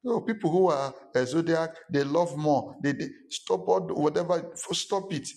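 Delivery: lampoon the star-sign crowd; mock zodiac fan. Mocking zodiac talk, then cutting off.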